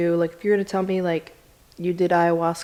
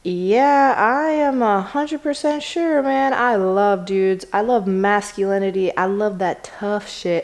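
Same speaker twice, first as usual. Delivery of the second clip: louder, slow macho insistence; emphatic insistence; 4 dB louder, slower than usual. Retold or imitated. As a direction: insist hard you love men.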